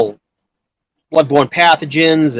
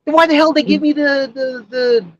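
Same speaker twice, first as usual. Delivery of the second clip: higher, exasperated protest; indignant protest; 10 semitones higher than usual. Real, not acted. To friends, the courier protests he was given a pass, indignant. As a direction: push back in disbelief at the question.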